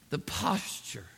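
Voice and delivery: breath-only, hushed emphasis; near whisper. Real, not acted. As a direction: drop almost to a whisper. Hushed pause before new point.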